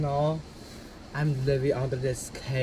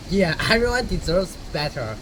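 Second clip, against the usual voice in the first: laughing; 7 semitones higher, 6 dB louder than usual. Real, not acted. Laughing while making a point.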